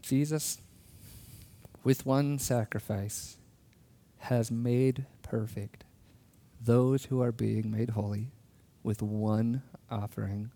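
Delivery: slow, measured recitation of scripture; solemn scripture reading. Acted. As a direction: read it slowly, letting each phrase land.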